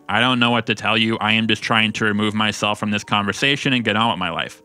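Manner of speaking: lightly put-on monotone machine reading; mock translator voice. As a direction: read it out evenly, like translation software. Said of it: "plug into Google Translate".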